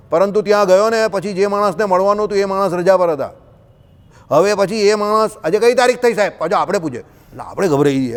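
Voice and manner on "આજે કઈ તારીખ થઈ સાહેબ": bold peon question. Retold or imitated. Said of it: "એનો tone જ એવો".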